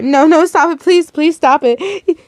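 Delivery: high, desperate plea; begging. A narrator's reading. Daughter begging for mother's life, desperate. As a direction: beg with drawn-out pleases. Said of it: "You begged".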